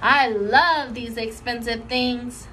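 put-on slow, proud little girl voice; Lucille. Lucille showing off to her friends, slow and proud. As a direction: savor each word proudly. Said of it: "real thrilled".

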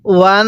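ওয়ান with the ন hummed through the nose; nasal ghunnah. Shown as a demonstration. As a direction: let the ন of ওয়ান ring in the nose. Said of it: "নাকের বাসি দ্বারা গুন্নাহ করবেন". (নাক দিয়ে গুন্নাহ করে ওয়ান)

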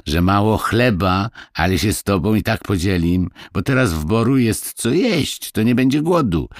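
put-on high, lively peasant boy explaining; a small village boy telling a tale; little boy Kuba. A narrator's reading. Kuba continues.

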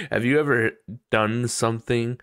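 ordinary talk

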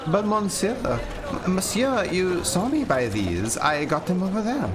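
high, nervous pleading; frightened maid pleading with watchman. Acted. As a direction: beg the guard to believe her.

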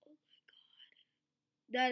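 slow stunned whisper. Real, not acted. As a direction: breathe it out in disbelief. Whispered disbelief.

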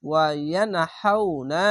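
ওয়া ইয়ানহাউনা read slowly; slow even reading of ইয়ানহাউনা; tajweed ইয়ানহাউনা; recitation after spelling. Shown as a demonstration. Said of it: "reading পড়বেন".

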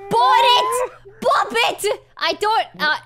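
hammed-up British accent; mock Brit fumbling through it; attempted British accent. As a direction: put on a playful, shaky-attempt British accent. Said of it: "British accent, British accent, go".

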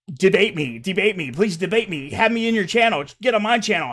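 mock Chili taunt. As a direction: parrot him as a whiny challenger.

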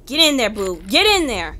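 loud, urgent push; urgent urging. Real, not acted. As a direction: hurry the character in, loud. Urging character to hide.

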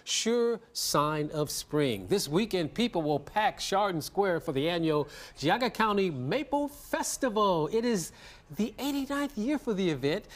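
bright measured broadcast intro; news anchor read. Acted. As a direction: read it like a morning news open. Anchor opens the morning segment.

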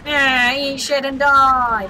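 high, drawn-out battle yell; gleeful game yelling; shouted taunt. Pretend. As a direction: stretch it into a loud shout.

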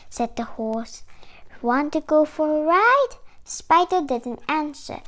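measured picture-book reading, clearly projected; story read-aloud. Acted. Reading a spider picture book to children, story read-aloud.

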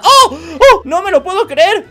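loud, high laughing gasp; can't believe what he just saw; laughing disbelief. Real, not acted. Gamer reacts to viewers, laughing in disbelief. Stunned by a crazy stunt.

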